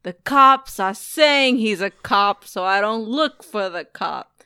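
slow mock Costello; quoting Costello. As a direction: drag it out like the boss. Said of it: "Costello's like".

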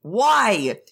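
high, cutting-off retort; angry outburst. Acted. Jiang Cheng cutting off Wei Wuxian, angry outburst. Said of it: "He's just mad as fuck".

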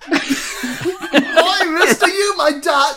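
high-pitched mock Cockney urchin, laughing; hammed-up common London accent. Host joins in teasing co-host's accent, mock Cockney. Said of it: "my accent slips and you find out".

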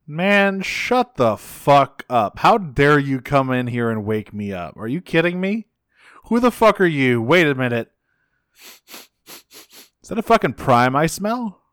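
hammed-up outraged Unicron; angry Unicron. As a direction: rage at being woken like a cranky god. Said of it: "Unicron just like".

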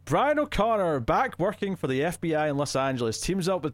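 lifted opening, then an even reading voice; synopsis read-aloud. Acted. Host reads co-host the fourth film's description, read-aloud voice. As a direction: read it out like a film blurb.

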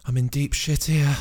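high-pitched little hero voice; worried Jack character. Acted.

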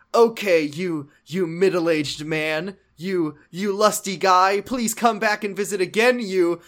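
hammed-up inept domme; feeble dominatrix insults. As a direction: slowly grope for each insult, trying to sound stern. Voices timid dom attempting insults.

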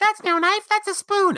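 very high, loud cartoon Aussie; hammed-up, shrieky Australian caricature; mock Australian accent. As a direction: squeal it in a fake Australian accent. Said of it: "with an Australian accent".

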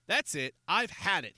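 fed-up, forceful shout; angry yell. A narrator's reading. Patrick fed up with his neighbor, yelling. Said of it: "he yelled".

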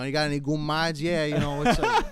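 playing the goomba act, laughing; mock goomba. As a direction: ham it up laughing.

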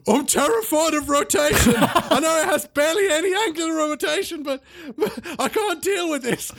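high, quavering voice of a man terrified of spinning; terrified whimper. Acted. Strongman too scared to climb, voice quaking with terror. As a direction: shake with terror at the rotation. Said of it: "shuddering in terror".

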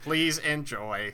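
slow, stiff robot cook voice; glitching robot. Pretend. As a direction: deliver it like a broken robot chef. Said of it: "a malfunctioning robot cook".

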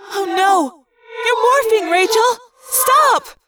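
high, loud urgent shouting; alarmed shout. Acted. Cassie shouting to falling Rachel, alarmed shout. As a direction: yell at her to stop.

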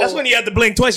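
laughing shout. Real, not acted. Friend shouting a joke about the brothel, loud and delighted.

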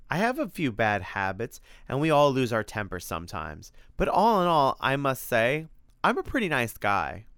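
lightly voiced friendly monster; affable monster, defensive. Freddy insists he's a nice guy, lightly indignant monster. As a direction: defend your good character with some pride.

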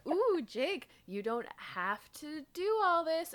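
lightly voiced sly tempter; a hint of a coaxing goblin; teasing Drode. Host imitates the Drode tempting Jake, mild sly coax. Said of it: "And he's like".

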